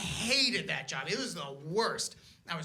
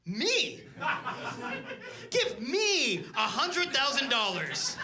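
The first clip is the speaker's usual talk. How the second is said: eager demand; 4 semitones higher, slower than usual. Retold or imitated. Naming himself beneficiary, hammed-up eager demand. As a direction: plead it grandly for yourself. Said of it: "and I said".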